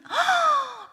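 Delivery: high, loud gasp of astonishment; shocked gasp. Retold or imitated. Mother seeing her baby's healed navel, astonished gasp. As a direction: suck in air in amazement.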